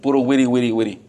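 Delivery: run-together babble on one note; mock chatter noise. Preacher showing what onlookers hear, mock jabbering. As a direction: imitate how talk sounds to outsiders. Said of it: "nomás nos ven que pu-, somos puro".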